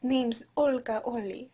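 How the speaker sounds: put-on shaky-footed stab at a Russian accent; failed Russian accent. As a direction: try Russian and miss slightly. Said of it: "That is not Russian".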